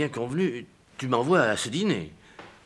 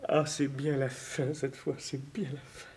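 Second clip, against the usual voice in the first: fading despair; 6 dB quieter than usual. Acted. Final despair.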